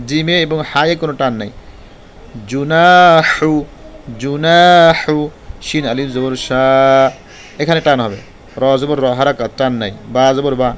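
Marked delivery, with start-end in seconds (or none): 2.5-5.2 জুনাহু with the না stretched long and loud; জুনাহু, stretch the না one alif length, loud and clear; drawn-out nun. Shown as a demonstration. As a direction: hold the না in জুনাহু for a full alif. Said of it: "এই জন্য নুনে টান হবে".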